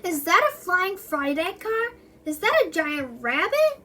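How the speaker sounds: excited onlookers. Acted. Crowd gasping at flying car.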